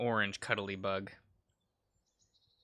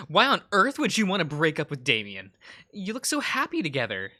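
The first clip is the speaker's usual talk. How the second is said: mildly exasperated, higher on the second sentence; angry confrontation; 3 semitones higher, 3 dB louder than usual. Acted. Diana confronting Cyrus over breaking up with Damien, mildly angry. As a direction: scold a friend in pitched-up disbelief. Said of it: "She says as she angrily throws".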